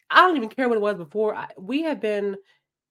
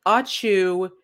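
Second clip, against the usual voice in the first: mock sneeze; 4 dB louder than usual.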